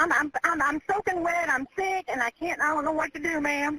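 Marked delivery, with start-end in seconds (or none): none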